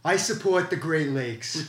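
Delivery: slow, self-assured Trump voice; Trump impression. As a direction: boast it like Trump. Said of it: "Let me, let me do this".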